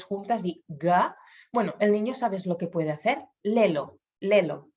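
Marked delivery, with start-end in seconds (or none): 3.4-4.0 lelo, both syllables with L; child's simplified word. Shown as a demonstration. Speech therapist demonstrates a child saying lelo. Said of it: "en vez de luego". 4.2-4.7 lelo drawn out, final o held; child's simplified word. Shown as a demonstration. Speech therapist repeats the toddler's lelo. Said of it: "en vez de luego".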